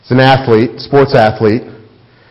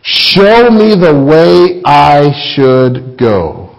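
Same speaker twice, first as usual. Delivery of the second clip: slow earnest prayer; much slower than usual. Acted. Reading King David's prayer.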